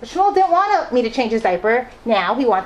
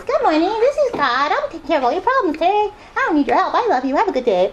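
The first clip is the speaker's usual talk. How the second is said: much higher, goofy mock reading; silly voice; 7 semitones higher than usual. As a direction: read it like a teasing kid making fun. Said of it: "silly kind of voice, like this".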